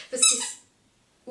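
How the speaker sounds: sudden high yelp of surprise; startled squeak. Real, not acted. Vlogger startled mid-sentence by the toy ball, high yelp. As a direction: caught off guard, voice jumps way up.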